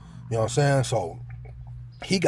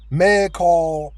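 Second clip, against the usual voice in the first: nurse calling out; 5 semitones higher, 6 dB louder than usual. Retold or imitated. Nurse calling out each morning.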